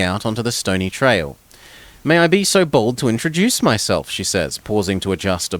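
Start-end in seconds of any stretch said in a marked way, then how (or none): 2.0-4.1 higher, courtly lady's voice; a gracious noble introduction; refined baroness. Acted. Baroness introduces herself to the warrior, lightly refined.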